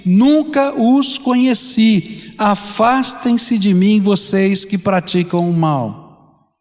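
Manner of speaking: slow, emphatic pronouncement; clear declaration. Acted. Jesus rejecting false followers on that day, slow clear declaration. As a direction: pronounce each phrase slowly and distinctly. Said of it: "lhes direi claramente".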